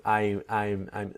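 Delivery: "I'm" said weakly, the m barely closed; a sloppy "I'm" to show the mistake; bad accent demo. Shown as a demonstration. Teacher imitating learners' weak "I'm", barely closed m. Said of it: "not a good accent".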